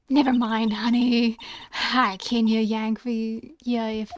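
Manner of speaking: a hint of a Southern accent. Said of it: "you're getting a half-assed accent from me".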